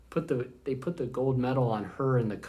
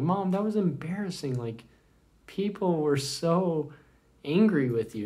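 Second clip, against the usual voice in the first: higher, cut-off complaint; embarrassed teen son; 6 semitones higher than usual. Retold or imitated. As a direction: start to complain like a mortified teenager.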